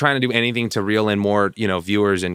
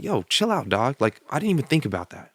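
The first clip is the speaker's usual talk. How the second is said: higher-pitched, pleading chill-out; retold protest; 4 semitones higher than usual. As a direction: replay telling someone to back off. Retells his protest in an argument.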